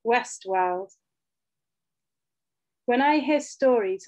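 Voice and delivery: measured poem recital with deliberate pauses between phrases; poetry reading. Acted. Poet reads their poem about motherhood to an audience, measured poetry reading. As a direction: read each line evenly, letting it land before the next.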